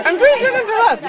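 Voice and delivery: talking through a mouthful of food; words round a bite; mouth full. Real, not acted. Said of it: "you've got your mouth full".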